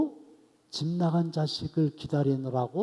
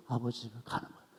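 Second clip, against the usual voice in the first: fast and much softer, tossed off; quick soft repeat; 4 semitones lower, 11 dB quieter, much faster than usual. Shown as a demonstration. Preacher repeating his point to the congregation, quick and soft. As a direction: rattle it off under your breath.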